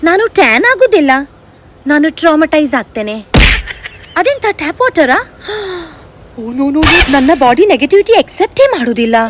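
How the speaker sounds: lightly voiced fussy, self-adoring girl; touchy girl-gang diva showing off to friends; pampered diva. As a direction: play the over-sensitive princess, all airs. Sketch of the sensitive personality.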